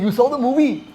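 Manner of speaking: high-pitched amazed question, badly mimicked; rough impression of an incredulous friend; Vicky Kaushal, disbelieving. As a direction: repeat his disbelief, voice shooting up. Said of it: "I still remember him saying".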